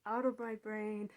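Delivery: "Out of my brain" said firm, at normal pitch; calm but firm order; firm dismissal. Retold or imitated. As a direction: push them out, steady and clear. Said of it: "I just say".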